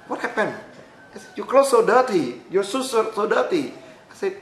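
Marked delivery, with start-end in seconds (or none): 0.1-0.5 incredulous. Retold or imitated. Director questions his appearance. 1.4-3.7 disapproving. Retold or imitated. Director remarks on dirty clothes.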